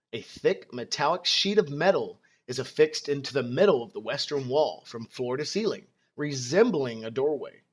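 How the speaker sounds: calm, even scene-setting narration; storytelling narration. Acted. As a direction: set the scene like a game master. Game master scene setting.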